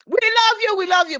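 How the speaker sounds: cheering from her chair at the screen; screaming love. Retold or imitated. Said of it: "my screaming from my chair".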